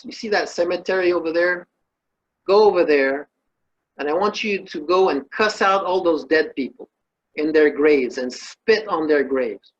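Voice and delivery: firm sage instructing the man; mock stern sage command; a hint of a commanding sage.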